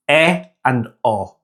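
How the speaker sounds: "E and O" as short EH and AW; short Spanish vowels. Shown as a demonstration. Teacher isolating the two vowels, short "E and O". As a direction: say "E and O" as pure vowels, no glides. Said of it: "tweak to those two sounds".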